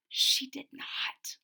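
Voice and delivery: unvoiced sneering whisper. Classmate Angela whispering to the class, scoffing. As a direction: hiss it behind her hand. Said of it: "whispered Angela".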